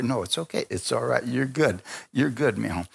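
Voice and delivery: soft, gently retold comfort; mild fatherly reassurance, voice eased down; reassuring father. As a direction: soothe a sorry child, understated. Father comforts his tearful son.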